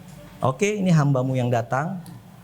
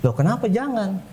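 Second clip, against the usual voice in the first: mock surprise; 7 semitones higher than usual. Counselor probing teen's refusal.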